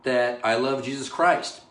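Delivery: ordinary delivery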